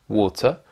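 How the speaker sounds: water with a long O and silent R; British pronunciation. Shown as a demonstration. Teacher giving learners the English word for "de l'eau", British pronunciation. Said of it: "la prononciation en accent britannique".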